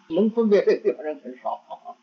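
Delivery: said through a real chuckle; laughing. Real, not acted. Teacher to students on a common mistake, laughing. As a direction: let a laugh run into the words.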